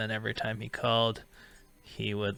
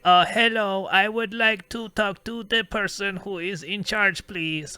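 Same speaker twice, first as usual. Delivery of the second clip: high, loud put-on caller voice; hammed-up voice of a prank caller; fake phone voice; 10 semitones higher, 7 dB louder than usual. Prank caller on the phone disguising his voice. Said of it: "he would do fake voices all the time".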